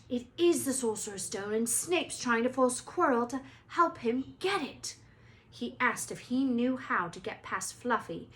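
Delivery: excited, urgent explaining; excited Harry. Acted. Harry excitedly tells friends.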